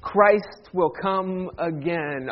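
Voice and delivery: very slow, solemn recitation; liturgical line. Shown as a demonstration. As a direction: intone it word by word as liturgy. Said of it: "Anybody know the third line?".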